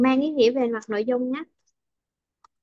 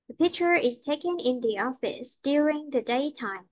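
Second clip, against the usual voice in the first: picture, taken, office and daytime clear, pitch falling at the end; content-word stress, falling end. Shown as a demonstration. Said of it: "mình sẽ xuống giọng".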